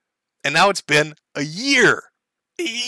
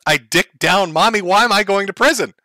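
indignant mock bewilderment, pitched up in places; mock confusion; 3 semitones higher than usual. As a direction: imitate a baffled arrestee, pitch rising. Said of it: "Completely confused".

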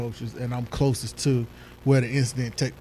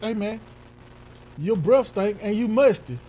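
mock insult; 7 semitones higher, 3 dB louder than usual. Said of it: "you be like".

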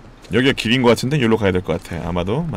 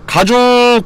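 ordinary talk, nothing marked

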